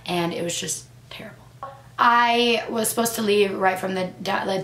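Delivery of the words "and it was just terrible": whispered. Real, not acted. Recalling disgust, voice drops.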